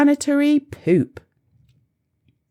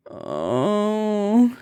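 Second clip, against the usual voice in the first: groan; 3 semitones lower than usual. A narrator's reading. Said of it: "he groaned".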